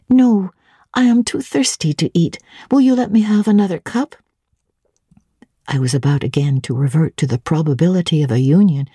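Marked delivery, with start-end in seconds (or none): 0.1-4.1 put-on higher, eager young woman asking; curious governess pressing for details; young Jane. Jane eagerly questioning Mrs Fairfax, higher curious voice.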